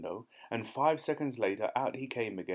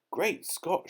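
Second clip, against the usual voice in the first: surprised shout; 8 semitones higher than usual. A narrator's reading. The police chief recognises the burglar, shouting high. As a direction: blurt out in shock. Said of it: "shouted the chief of police".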